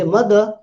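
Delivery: "mother" ending in uh, with no r; MUH-duh for "mother"; final r dropped. Shown as a demonstration. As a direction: leave the r off mother. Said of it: "I am dropping the final r".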